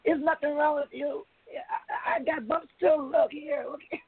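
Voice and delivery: high, eager voice of the friend; friend's voice. Retold or imitated. Friend showing her own rash, high eager insisting. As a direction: raise the pitch, insist nothing's wrong. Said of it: "He's like".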